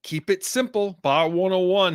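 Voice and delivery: upbeat radio sponsor read. Acted. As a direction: sell the bar like a DJ.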